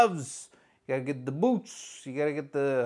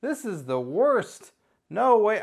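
higher, louder yelp of defeat in the hold; panicked outburst; 8 semitones higher, 5 dB louder, much slower than usual. Retold or imitated. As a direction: cry out like you're caught in a Boston Crab. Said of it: "I go".

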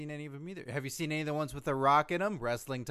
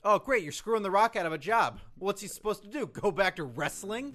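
loud sarcastic indignation, higher; mock outrage; 5 semitones higher, 6 dB louder than usual. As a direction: rant in pretend outrage. Mock outrage on the Rock's behalf.

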